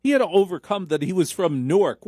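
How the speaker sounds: normal talking voice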